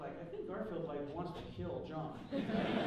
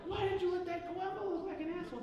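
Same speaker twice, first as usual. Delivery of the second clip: higher-pitched mock outrage at Amber; mock exasperated; 11 semitones higher, faster than usual. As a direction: whine it like a hammed-up complaint. Complaining to Amber about description.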